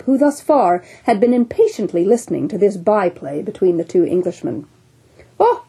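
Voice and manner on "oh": sudden oh. Acted. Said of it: "cried the one-armed captain".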